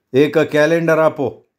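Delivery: slow, cool request; cool, composed. Acted. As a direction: ask slowly and matter-of-factly. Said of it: "बेनवा थंडपणे म्हणाला". (थंडपणे, सावकाश)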